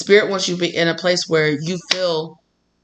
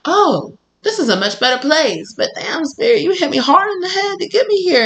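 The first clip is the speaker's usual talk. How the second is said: mock whiny self; 11 semitones higher than usual. Relieved, then whining about hit.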